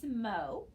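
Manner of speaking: "smo" with a long o; long o syllable. Shown as a demonstration. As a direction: say "smo" drawn out, open syllable. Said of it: "we would pronounce this part".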